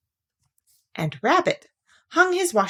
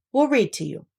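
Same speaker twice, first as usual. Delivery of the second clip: cheerful; 5 semitones higher than usual. Acted. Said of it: "said Rabbit cheerfully".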